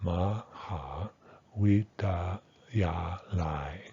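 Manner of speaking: "ma, ha, wheat, ta, ya, lai" syllable by syllable; unreduced pronunciation. Shown as a demonstration. Teacher models the whole word for university, every syllable unreduced. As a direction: give "ma" and "ta" their full "ah", each syllable separate. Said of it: "So something like".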